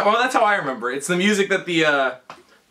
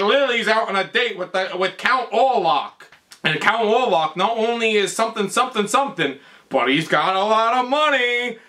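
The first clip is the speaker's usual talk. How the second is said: higher, hammed-up old-man chatter; put-on character voice, pitched up; imitated Count; 6 semitones higher than usual. Voices the Count answering Igor.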